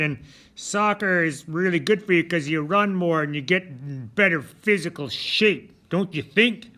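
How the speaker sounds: put-on loud, eager kid pushing back on the teacher; eager student interrupting. Student Johnny objecting to his teacher, loud and eager. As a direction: play a pupil arguing his point, full volume. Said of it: "Yes, little Johnny".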